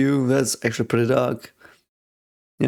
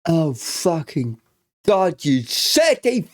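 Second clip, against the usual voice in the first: much higher, slow strained cries; panicked high pleading; 8 semitones higher, slower than usual. Real, not acted. Fan begging the soldier not to die, panicked cries. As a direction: beg the screen in panic.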